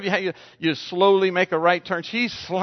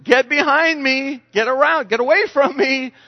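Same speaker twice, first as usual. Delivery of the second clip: forceful rebuke; 8 semitones higher, 4 dB louder than usual. Shown as a demonstration. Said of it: "do a prayer, say".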